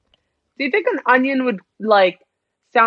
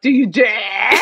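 quicker theatrical challenge with a rising end; alternative dramatic dare; 6 dB louder, slower than usual. Acted. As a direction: throw out the dare, lifting the end. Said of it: "Something like that".

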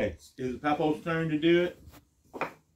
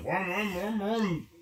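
playful vroom vroom engine noise; engine vroom sound; 5 semitones higher, 4 dB quieter, slower than usual. Pretend. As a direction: make a toy truck engine noise. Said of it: "Make the engine sound".

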